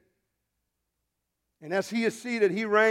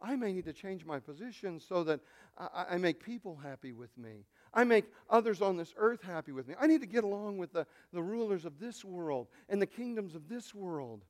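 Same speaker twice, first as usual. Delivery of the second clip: mock anxious thinking; 9 dB quieter than usual. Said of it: "wig out and think".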